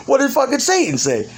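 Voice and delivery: very high mock demand; high, exasperated retold question; acted incredulous question.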